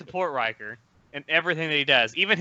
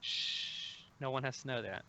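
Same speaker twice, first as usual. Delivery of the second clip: hushed whisper; 5 semitones lower, 16 dB quieter, slower than usual. Pretend. Hushing a secret joke.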